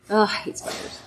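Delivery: breathy disgusted whisper. Real, not acted. Spider back in corner.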